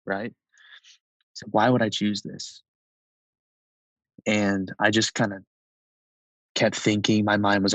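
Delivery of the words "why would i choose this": understated retold intensity; pointed question with restrained force; intense, not angry. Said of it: "not angrily, but really intensely".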